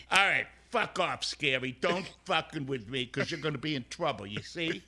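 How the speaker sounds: lightly played tough bouncer; a hint of a tough bouncer. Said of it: "send us off in your bouncer voice".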